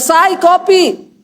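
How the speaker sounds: mild mock yell, drawn out; retold call. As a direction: imitate a husband calling for coffee, slowly. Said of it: "Dia teriak".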